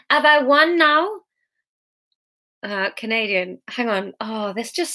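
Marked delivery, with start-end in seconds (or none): 0.1-1.1 high, raised shouted question. A narrator's reading. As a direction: demand an answer, calling out. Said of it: "the devil shouted into the sky".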